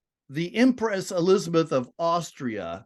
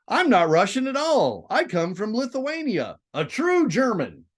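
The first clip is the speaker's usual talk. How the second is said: female voice; 7 semitones higher than usual. Shown as a demonstration. Reading Marie's quoted lines.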